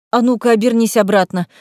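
demanding. Acted. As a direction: order it firmly. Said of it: "потребовала Лиза".

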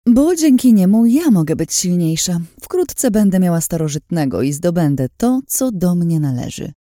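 high, forceful villainess voice; Lin, scheming and sure of herself. Acted. Lin boasts of the power she will gain, gloating. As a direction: boast hungrily, starting high and loud.

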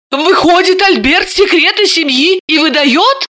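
high, outraged question; indignant exclamation. A narrator's reading. Ksenia outraged at uncle giving away secrets, indignant. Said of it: "возмущённо воскликнула Ксения".

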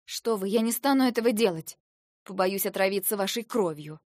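coolly haughty retort. A narrator's reading. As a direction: look down on her as you say it. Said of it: "надменно сказала я".

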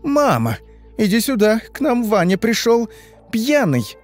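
high-pitched tattling call; calling for mother. A narrator's reading. Sister tells mother that brother came drunk, calling out. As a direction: call out to another room.

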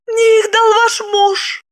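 high, slow, candid admission; honest confession. A narrator's reading. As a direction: confess it simply in a high woman's voice. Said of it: "честно призналась Липочка". (честное признание)

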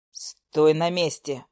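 low, dragged-out order; low slow command. Acted. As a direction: Nikita ordering her to stay still, low and slow. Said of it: "приказал Никита".

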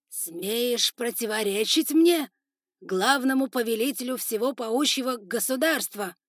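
loud, slow, furious challenge; angry father. Acted. Spider lord scolding his defiant son, loud and slow. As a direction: thunder it down at the son. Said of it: "брови отца нахмурились".

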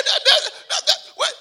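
high laughing rush of words; high, loud, laughing retort; laughing exasperation. Retold or imitated. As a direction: tease her with the choice. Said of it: "I said".

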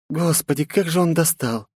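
defiant princess. A narrator's reading. Princess mocks her father, defiant. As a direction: tease and defy her father.

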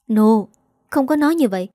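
firm but understated rebuke; mild scolding. Acted. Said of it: "Thấy mợ la mình". (mắng nhẹ, giọng hơi cao)

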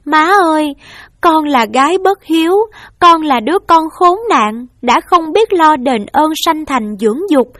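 tearful pleading. Acted. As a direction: beg your mother to let you take the blame. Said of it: "ôm mẹ khóc và nói".

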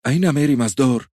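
nervous demand. Acted. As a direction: snap out the question, patience gone. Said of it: "قالت بعصبية وقد أتى الخوف على صبرها". (سؤال عصبي بصوت أعلى وأرفع)

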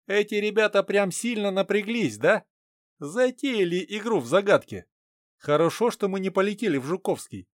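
worried partner muttering doubt; Rubin's voice. Acted.

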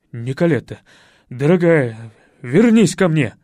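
loud dramatic calling out; theatrical plea. A narrator's reading. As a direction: burst in begging her back. Stepfather bursts in pleading.

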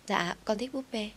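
put-on a small child answering sweetly. A narrator's reading. Little daughter tells the boss she wants a doll, lightly childlike.

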